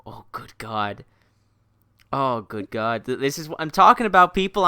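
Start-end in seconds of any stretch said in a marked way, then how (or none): 0.0-1.1 unvoiced, softer whisper; whispered awe. Real, not acted. Streamer hearing Rose offer more accents, whispered awe. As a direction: breathe it like you're overwhelmed.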